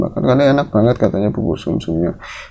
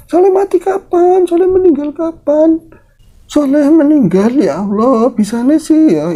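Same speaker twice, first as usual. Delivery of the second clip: high-pitched, louder grieving disbelief; shocked; 4 dB louder than usual. Acted. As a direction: exclaim like a granny reeling from a death. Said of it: "Itu saking kagetnya gitu". (nenek syok, berseru dengan nada tinggi)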